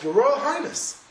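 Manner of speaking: calling out. Acted. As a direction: call after the departing king. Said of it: "the architect calls out".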